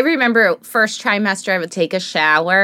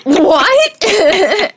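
baffled what; 10 semitones higher than usual. Retold or imitated. Confused reaction.

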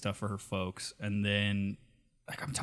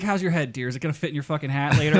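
raised, louder mock-concerned needling; teasing girlfriend; 4 semitones higher, 6 dB louder, faster than usual. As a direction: imitate a partner needling his big head. Retold girlfriend teasing his ego.

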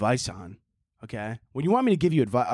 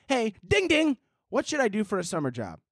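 read as written; 8 semitones higher than usual. Shown as a demonstration. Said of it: "I'm gonna read it like you wrote it".

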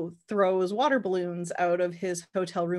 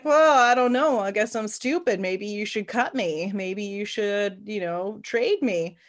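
mock sulky player; 3 dB louder than usual. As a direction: sulk like a player daring the coach. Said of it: "And he's like".

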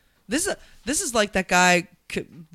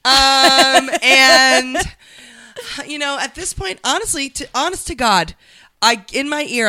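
high, loud mock anchor near tears; mock anchor addressing a congressman, choked up; emotional anchor; 6 semitones higher, 6 dB louder than usual. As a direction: imitate a newswoman holding back tears. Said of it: "who was like".

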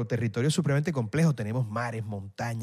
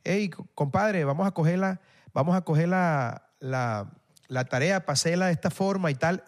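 put-on Santa Marta accent. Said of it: "estás en Santa Marta".

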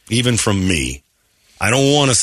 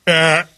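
high, hammed-up wail; mock crying; 4 dB louder than usual. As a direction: imitate a grown man blubbering. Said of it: "we're just crying like".

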